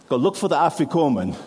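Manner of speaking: a light try at a Jewish accent. Shown as a demonstration. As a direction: lean gently into a Jewish accent on afikomen. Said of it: "Working on my Jewish accent".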